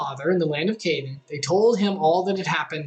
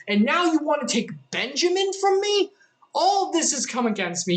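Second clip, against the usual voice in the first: distraught father; 9 semitones higher than usual. Acted. Jacob refuses to send Benjamin.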